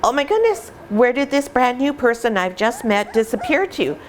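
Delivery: high, hammed-up gasp that settles into worried asking; mock panicked puppy. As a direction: play the scared puppy missing its owner. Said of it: "They're like".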